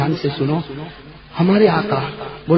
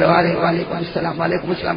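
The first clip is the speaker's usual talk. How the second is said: flustered. Retold or imitated. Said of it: "تو اس نے گھبرا کر".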